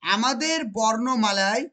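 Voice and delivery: very slow, stressing আমাদের বর্ণমালায়; slow repeat. Shown as a demonstration. Teacher repeating the conclusion for students, very slow. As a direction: drag it out so it sticks. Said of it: "কি বললাম?".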